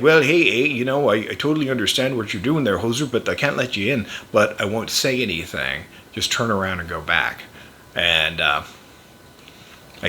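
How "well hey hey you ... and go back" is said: Canadian border guard. Retold or imitated. Border guard turning dad back at the crossing, lightly imitated Canadian. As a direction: let him off like a sympathetic official. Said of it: "the Canadian guy was like".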